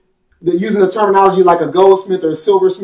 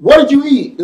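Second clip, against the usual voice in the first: disgusted question; 6 semitones higher, 3 dB louder than usual. Retold or imitated. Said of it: "is the first thing we say".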